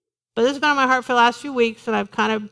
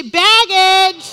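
sassy; 5 semitones higher, 6 dB louder than usual. Shown as a demonstration. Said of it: "say it with a little bit of attitude".

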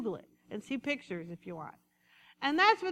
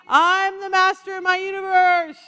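mock proud sheep; 5 semitones higher, 13 dB louder than usual. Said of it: "imagine a sheep saying".

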